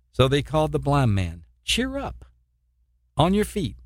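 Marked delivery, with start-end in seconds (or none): 1.6-3.8 bright, much higher encouraging call; eager call. Acted. Crowd calling the blind man over, eager and high. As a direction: lift him up with it, up high.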